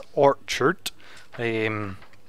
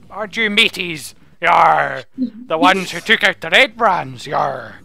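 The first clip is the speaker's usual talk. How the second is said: mock pirate. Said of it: "Pirate talk".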